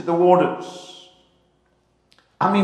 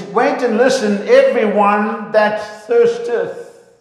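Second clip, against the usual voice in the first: raised, slow, louder verse reading; solemn scripture reading; 5 semitones higher, 4 dB louder, slower than usual. Shown as a demonstration. Preacher reads the scripture aloud, slow and raised. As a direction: proclaim the verse slowly to the congregation. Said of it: "It says".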